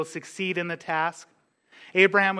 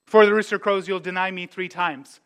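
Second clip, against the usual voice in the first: Jesus' warning; 2 semitones higher, 3 dB louder than usual. Retold or imitated. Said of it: "And Jesus told him".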